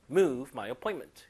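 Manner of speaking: slow, stressing move; slow model reading. Shown as a demonstration. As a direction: read it out slowly for students. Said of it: "들어볼게요".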